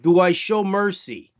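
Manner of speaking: lightly put-on Long Island accent. Reading a question to Jen in mock Long Island accent. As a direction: read it like a Long Island caller. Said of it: "let me do the Long Island accent".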